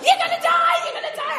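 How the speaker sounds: high, loud laughing retelling; mock-panic shriek dissolving into laughter. Real, not acted. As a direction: laugh through the words. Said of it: "Not helpful".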